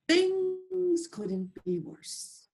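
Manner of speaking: the last straw, dragged out. Acted. Man despairs a last time.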